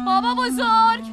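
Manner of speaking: slow, loud call across the village. Acted. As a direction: stretch it out to reach far. Calling for missing grandfather.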